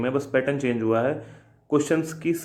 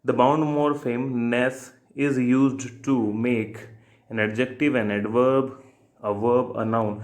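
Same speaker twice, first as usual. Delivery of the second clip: slow question reading; much slower than usual. Shown as a demonstration. Teacher reading an exam question to students, slowly.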